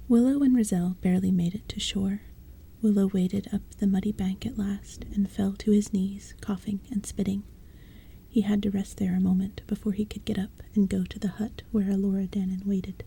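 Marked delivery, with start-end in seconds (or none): 0.1-11.9 hushed, breathy-free whisper read; whispered storytelling. A narrator's reading. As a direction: bedtime story told in a whisper. Whole reading whispered.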